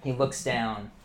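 slow, building scene narration; dramatic narration. A narrator's reading. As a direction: paint the missed shot slowly. GM narrates the missed bolt.

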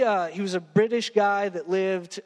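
usual speaking voice

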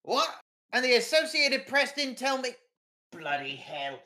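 shocked editor. Acted. Editor learning Bennett was murdered, outraged surprise. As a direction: react to the news with indignant shock.

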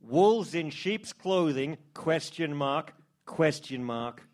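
dramatic headline reading. Pretend. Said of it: "B is maximum tabloid".

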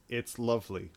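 monotone. Retold or imitated. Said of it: "in a monotone voice".

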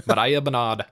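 Mariah with one quick flicked R; single tapped R. Shown as a demonstration. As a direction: tap the R in Mariah, Bernard as "Buhnahd". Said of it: "it's like a single".

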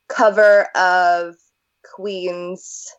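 talking through a yawn; words stretched by a yawn. Real, not acted. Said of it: "I'm sorry, I'm yawning".

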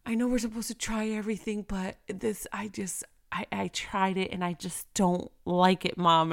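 a hint of a polite child apologising; sweet innocent kid voice. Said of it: "his sweet, innocent voice".

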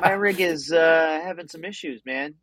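thin voice no bass. Real, not acted. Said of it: "'Cause you sound like you're on a phone".

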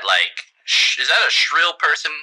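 smooth-talking sleazy politician; flirty mayor voice. Acted.

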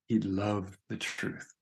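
slow, weighted emphasis on "loved"; stress on LOVED. Real, not acted. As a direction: lean on the word "loved", unhurried. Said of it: "Emphasis on the word love".

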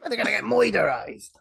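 mock gangster, moy-der-ized; jokey moiderized. Hosts joking about the campers' fate.

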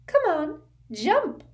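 a spiteful mermaid mocking a sinking boy; malicious mermaid giggle. A narrator's reading. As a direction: tease him from above, cruelly playful. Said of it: "she giggled maliciously".

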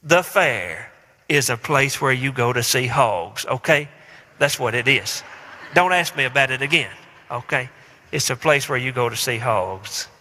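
preacher imitating his own condescending dad answering a whining kid; condescending parent. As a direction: talk down to the child like a weary dad. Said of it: "very condescending tone".

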